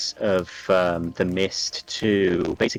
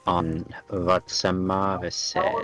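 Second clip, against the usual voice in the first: slow, low dragon-tongue voice; low draconic voice; slower than usual. Acted. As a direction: speak it slowly like a dragon in its own tongue. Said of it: "in a very, very low draconic voice".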